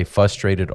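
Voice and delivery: "frustrated" without its first r; mispronounced frustrated. Shown as a demonstration. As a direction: say "frustrated" as "fustrated". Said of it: "I used to say frustrated".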